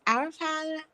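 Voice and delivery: playful toddler prayer imitation; imitating toddler praying. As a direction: chant it over and over like an excited toddler. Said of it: "every time she starts to, she goes".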